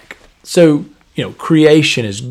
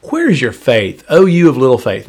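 rebuking tone; 4 dB louder than usual. Retold or imitated. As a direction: lightly chide them for doubting. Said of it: "I don't think his tone was like".

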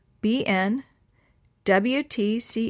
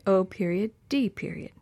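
ordinary delivery, nothing marked

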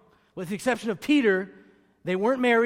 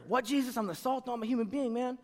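softer puzzled reply to Jesus; incredulous aside; 8 dB quieter than usual. Retold or imitated. A confused believer questioning Jesus, quietly incredulous. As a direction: play it as a baffled disciple. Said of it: "mock confused listener".

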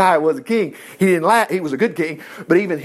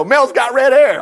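mock remark; 6 semitones higher, 4 dB louder than usual. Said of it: "You know".

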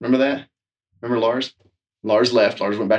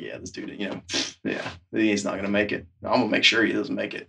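conspiratorial hush; 4 semitones lower, 7 dB quieter than usual. Retold or imitated. Instructors plotting against new boss.

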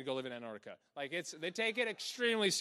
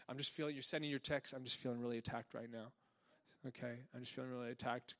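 mock whiny; 5 semitones lower, 9 dB quieter, faster than usual. Mocking texting believer.

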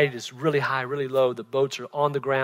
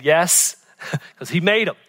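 laughing reply; 2 semitones higher, 4 dB louder than usual. Retold or imitated. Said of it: "And I'm saying".

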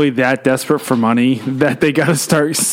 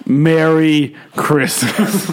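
very slow laughing greeting; drawn-out laughing; much slower than usual. Pretend. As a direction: stretch it out through a laugh. Teasing the holiday greeting.

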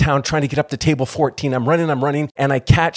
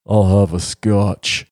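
lower, slow resonant voice; Spock's deep voice; 4 semitones lower, slower than usual. Retold or imitated. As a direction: order it in a slow booming bass. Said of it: "He had the deepest voice ever".

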